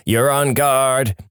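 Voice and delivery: drawn-out mock radio yell; a stretched-out call, not truly shouted. Pilots heckling on the guard frequency, mock yell. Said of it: "without people yelling".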